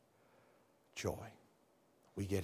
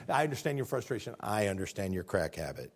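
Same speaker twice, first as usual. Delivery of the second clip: mock sympathy; 4 semitones lower than usual. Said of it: "It's like me saying".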